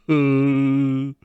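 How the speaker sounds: drawn-out strained "uhh"; strained imitation noise. Shown as a demonstration. Reactor imitating an all-teeth anime face, strained groan. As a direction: hold a groan through a painful face. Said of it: "it actually hurts to do that".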